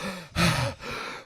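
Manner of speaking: heavy, audible exhale; imitated calming breath. Bartender outside calming herself, imitated heavy breath. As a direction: breathe out hard, imitating her reset. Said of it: "she does this, like".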